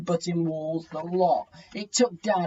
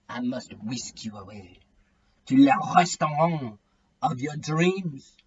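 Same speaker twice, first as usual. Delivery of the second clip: put-on awful French accent; 3 semitones lower than usual. A narrator's reading. Dad romancing Mum in a lightly voiced bad French accent. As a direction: croon it in a deliberately terrible French accent. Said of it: "switching to an awful French accent".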